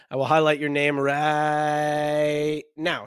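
slow, raspy stretched-out voice; raspy whisper. Pretend. Repeats line in put-on voice.

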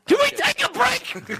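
high-pitched put-on begging; high mock whine for a break; mock plea. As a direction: plead loudly in a squeaky put-on voice. Host mock-pleads for a break.

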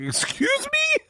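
high, slow, disbelieving "Excuse me?"; incredulous wife. Retold or imitated. Wife hearing husband's worry, stunned high disbelief. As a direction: play the stunned wife, drawn out. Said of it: "my wife's like".

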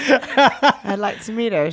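put-on English accent; affected English star, amused; mock-English celebrity voice; a singer. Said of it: "English accent".

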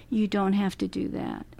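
softly soothing reassurance; gently hushing the family, voice eased down. Retold or imitated. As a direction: say it softly, to calm. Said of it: "soothing a voice as possible".

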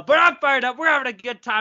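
high, loud hype; fired up. Real, not acted. Podcast host telling listeners they're having a good time, fired up. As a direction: pump up the listeners.

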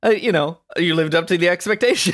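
high, laughing sarcastic reply. Retold or imitated. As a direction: laugh through a snarky compliment. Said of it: "I was like".

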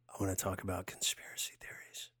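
hushed secretive whisper; breathy conspiratorial hush; conspiracy whisper. Pretend.

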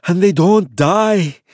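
slow, breathless and loud; panting. Acted. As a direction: pant it, out of breath. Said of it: "Barisha panted".

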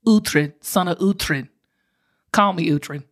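low, slow character impression; Uhtred. Fan shows off her favorite TV series, low heroic impression. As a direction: intone it low and slowly like a series hero. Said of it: "I'm just gonna show you".

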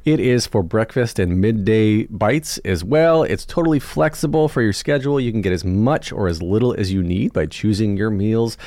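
upbeat, lively sponsor read; podcast ad read. Acted. Host pitching meal delivery to listeners, lively ad read. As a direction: sell it with punched key words and swooping pitch.

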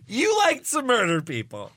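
put-on little girl voice. Mock reporter interviewing Braun Strowman.

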